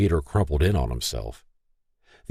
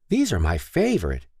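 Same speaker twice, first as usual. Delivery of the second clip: talking through a cookie; mouth full; 5 semitones higher than usual. A narrator's reading. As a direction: say it round a mouthful. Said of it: "through a mouthful of half-chewed green goo".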